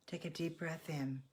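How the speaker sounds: guided meditation. Real, not acted. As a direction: gently lead them to let go, unhurried. Leads breathing and letting-go meditation.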